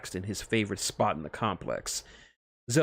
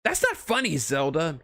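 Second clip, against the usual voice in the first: higher, laughing through it; laughing protest; 7 semitones higher, 4 dB louder than usual. A narrator's reading. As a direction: protest while cracking up. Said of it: "holding his stomach in laughter".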